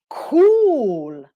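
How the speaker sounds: long "Cool" swooping high, then falling; voice goes up. Shown as a demonstration. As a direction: send "Cool" up as a keen reaction. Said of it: "their voice goes up".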